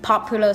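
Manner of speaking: POPular, first syllable punched; stress on first syllable. Shown as a demonstration. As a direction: hit the start of popular. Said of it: "the stress on the first one".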